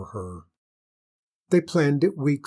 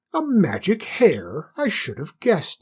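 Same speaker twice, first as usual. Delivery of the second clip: surprised; 7 semitones higher, 3 dB louder than usual. Acted. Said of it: "said the queen".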